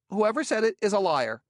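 high, loud and indignant; angry outburst. Acted. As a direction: snap back, outraged. Furious denial.

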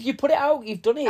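high, loud "You've done it"; excited. Real, not acted. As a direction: announce it with relief. Finds bin already out.

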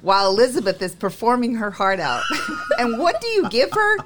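reading through laughter; laughing read. Retold or imitated. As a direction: read it cracking up. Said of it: "He said".

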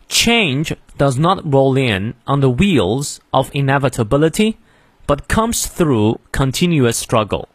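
slow, careful model reading for learners. Shown as a demonstration. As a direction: read it out slowly with clear content-word stress. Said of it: "从头到尾我们来过两遍". (慢速清晰示范朗读)

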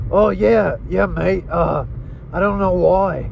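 lightly put-on Australian accent. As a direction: slip casually into an Australian accent. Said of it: "an Australian accent".

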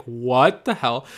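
slow, loud what the hell; drawn-out what the hell. Retold or imitated. Still amazed by the find, slow and loud. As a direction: stretch it out in amazement. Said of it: "I'm like".

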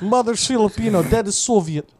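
mock Russian accent; jokey Russian-Filipino voice. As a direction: announce it as a Soviet-born Filipino, in accent. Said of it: "Russian Filipino".

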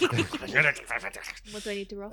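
laughing through the question; asking while cracking up. Real, not acted.

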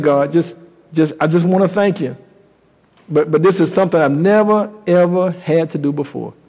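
low, hushed, halting mother's prayer; tearful prayer. Acted. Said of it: "she's crying and she's praying".

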